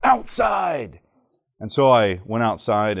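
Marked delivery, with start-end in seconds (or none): 0.0-1.0 sudden high shouted command from the teacher; teacher's shout. Retold or imitated. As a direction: bark it out like an angry teacher sending a kid out. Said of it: "and she went".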